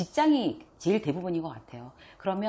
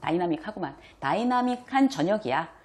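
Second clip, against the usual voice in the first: ordinary delivery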